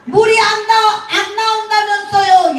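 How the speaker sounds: put-on high, sustained Gyeongsang-accented protest; Gyeongsang dialect. Repairman asks about the water, high Gyeongsang accent. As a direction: have a go at Gyeongsang speech. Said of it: "경상도 말 좀 해봐".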